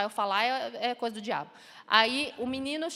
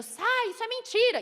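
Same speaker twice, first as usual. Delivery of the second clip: much higher, loud rebuking cry; shouting; 11 semitones higher, 6 dB louder than usual. Retold or imitated. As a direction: command the lie to leave. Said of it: "A gente, a gente gritando". (gritando para expulsar a mentira)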